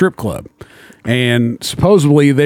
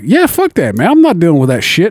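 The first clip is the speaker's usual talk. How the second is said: mock-heated yell; retold shout; 4 semitones higher than usual. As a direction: shout it back at your buddy. Retold argument with buddy, shouting.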